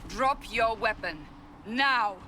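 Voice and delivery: commanding, building in force; stern command. Acted. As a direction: order them to disarm, hard on the last word. Armed command to disarm.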